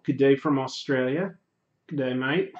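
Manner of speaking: lightly attempted Australian accent. Streamer reading a greeting from an Australian viewer, Australian accent. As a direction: greet with a mild Aussie accent, rising at the end. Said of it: "How, how was that accent?".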